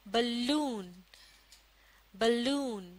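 बलून with a brief ब and a long, stressed लून; teacher's model बलून, second half stressed; stress on second syllable. Shown as a demonstration. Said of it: "दूसरे हिस्से में stress या जोर मौजूद".

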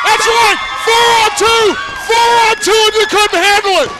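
loud shouted gloat; gloating yell. Real, not acted. Commentator taunts the retreating coalition, loud gloat. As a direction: rub it in at full volume.

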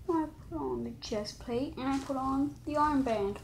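talking from inside a helmet; muffled by a helmet. Real, not acted. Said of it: "I'm gonna try to put the head on".

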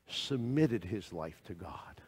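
slow hushed whisper. Acted. Preacher whispering the key point to the congregation. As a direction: drop to a whisper to land it. Quiet sermon emphasis.

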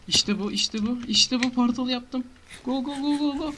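high, loud triumphant cheering; excited cheer. Real, not acted. Gamer cheering his lit portal in excitement. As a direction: celebrate the portal like a goal.

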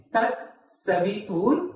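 slow, measured Tat Savitur; mantra demonstration. Shown as a demonstration. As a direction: draw out Tat Savitur for learners. Teacher models mantra line.

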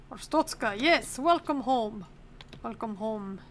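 slow, drawn-out mock Arstotzkan welcome; put-on Arstotzkan accent. Inspector welcoming a citizen home, mock Arstotzkan accent. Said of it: "sorry for the accent".

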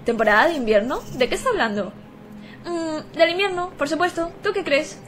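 stiff robot NPC voice. Acted. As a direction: speak like a robot. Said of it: "Estoy poniendo voz de robot".

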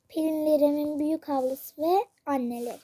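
strained hoarse throat. Real, not acted. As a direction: voice going hoarse, scratchy. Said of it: "Sesim kısıldı arkadaşlar".

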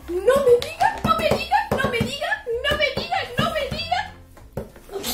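excited disbelief. Real, not acted. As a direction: build amazement, stretching the last one. Amazed at seeing a zip line. (asombro emocionado, en tono agudo)

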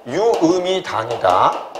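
drawn-out words at half speed; slow dictation. Shown as a demonstration. Teacher repeating a definition for students' notes, slowly.

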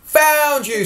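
a kind sheepdog finding the lamb; friendly voice. Acted. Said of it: "said a friendly voice".

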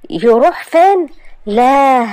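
put-on high, loud startled young man; shocked sweetheart; alarmed. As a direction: jump at the news. Hossam alarmed about inheritance.

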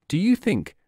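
lifted, gentle polite ask. A narrator's reading. Alice politely asking the Cheshire Cat, gently. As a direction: ask nicely, a touch high and sweet. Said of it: "she said politely".

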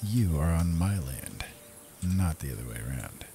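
stern in-character warning. Pretend. Speaks as his character to enemies.

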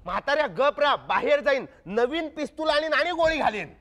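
snapping at the father down the line; mock threat. Inspector scolds the girl's father on the phone, comic angry threat.

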